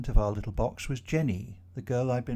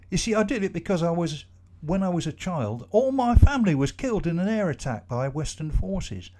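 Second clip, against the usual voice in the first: higher, earnest foreign man's voice, pressing on; Jacob pleading his cause; 4 semitones higher, 6 dB louder than usual. Acted. Jacob explains the bomb to the trapped office workers, higher and urgent.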